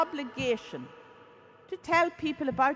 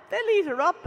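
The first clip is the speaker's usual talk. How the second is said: a raised, higher mock shout of alarm; retold worried shout; 5 semitones higher, 5 dB louder than usual. Priest warns about the politicians, mock shout. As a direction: call out the warning like the priest did.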